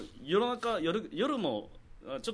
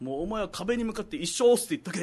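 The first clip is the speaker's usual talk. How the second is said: senior's order; 5 semitones higher, 5 dB louder than usual. Acted. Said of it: "「加藤」 っつって".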